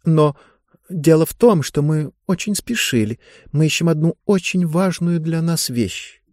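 lightly voiced polite girl asking a favour; pleading girl. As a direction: apologise politely and urgently.

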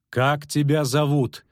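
slow, high, ringing question; high-pitched and resonant, unhurried; sonorous question. A narrator's reading. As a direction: ask it clearly, drawing it out high. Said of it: "звучно спросила Францеска".

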